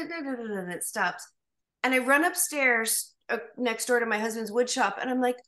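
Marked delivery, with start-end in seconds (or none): 0.1-0.6 soft, quick rolling "da-da-da" rumble; imitated quake rattle. Telling how the earthquake petered out, imitated rattle. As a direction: roll out the shaking as a run of syllables. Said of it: "And then it kinda".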